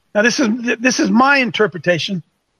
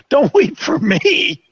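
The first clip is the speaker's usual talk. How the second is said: laughing; 4 semitones higher, much slower than usual. Acted. Preacher voices Jesus, chuckling.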